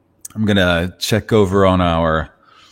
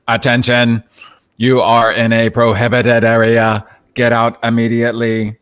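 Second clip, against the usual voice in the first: Dalek voice; 3 semitones higher than usual. Retold or imitated. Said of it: "Commands the Dalek".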